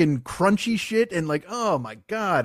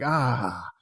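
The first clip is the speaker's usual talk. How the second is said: weary, relieved exhale; relieved sigh; 7 semitones lower than usual. Acted. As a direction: let out a tired "ah" as the burden ends. Relieved knees, dying in bed.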